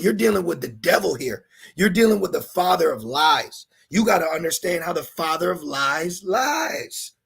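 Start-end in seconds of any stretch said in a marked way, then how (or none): 3.9-7.1 preaching shout. Real, not acted. Preacher warning congregation.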